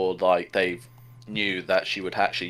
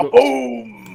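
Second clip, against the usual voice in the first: excited; 8 dB louder than usual. Retold or imitated. Mimics the explosion.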